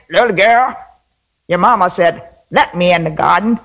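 put-on a light rabbit voice quoted by a child; girl imitating Brer Rabbit. The girl mimics Brer Rabbit for her mother, lightly voiced. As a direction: put on the rabbit's sly ask.

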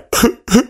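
high, short fake sobs; hammed-up little crying noises; mock sobbing. A narrator's reading. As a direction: act the king breaking into tears. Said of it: "he started to cry".

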